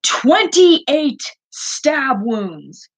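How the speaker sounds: slow, high, drawn-out quote of Connor; slow dramatic movie quote; Connor's famous line. Retold or imitated. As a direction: intone it slowly like the android. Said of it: "you know Connor's famous line".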